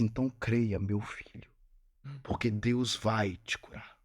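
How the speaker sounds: a calm blessing, low and unhurried; gentle reassurance. Retold or imitated. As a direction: reassure him gently, slowing down. Doctor blessing him, hand on shoulder.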